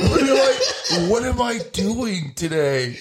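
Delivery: laughing mock confusion.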